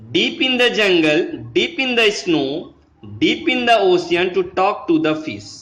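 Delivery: slow, measured poem recital; unhurried classroom poem reading. Shown as a demonstration. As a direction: read each line slowly to the class. Teacher reads the poem aloud.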